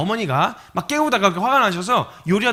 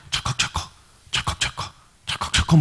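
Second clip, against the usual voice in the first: repeated clacking doorknob noise; clicking sound effect; imitated lock rattling. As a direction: mimic a handle being tried again and again. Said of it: "막 이러는 거야".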